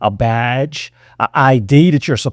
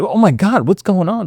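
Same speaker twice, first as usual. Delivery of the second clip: higher-pitched, mildly alarmed reaction; alarmed bystanders; 5 semitones higher than usual. Acted. Onlookers reacting to a yelling customer, mildly alarmed. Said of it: "would make people like".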